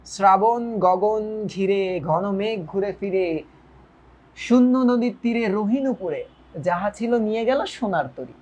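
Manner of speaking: measured verse with pauses at line ends; poem recitation. Shown as a demonstration. (কবিতা আবৃত্তি)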